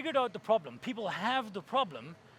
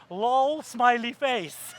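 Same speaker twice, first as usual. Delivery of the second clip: laughing reading; 3 semitones higher, 7 dB louder, much slower than usual. Retold or imitated. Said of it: "a message that said".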